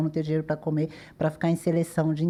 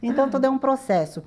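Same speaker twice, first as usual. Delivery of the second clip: high laughing, then words; 8 semitones higher than usual. Real, not acted. Laughing with the hosts after her joke.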